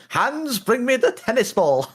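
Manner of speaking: high, loud call to the dog; playful high-pitched pretend dog call; mock calling out. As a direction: holler for a pet across the street, hammed up. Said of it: "gonna sound really bad in the middle of the street".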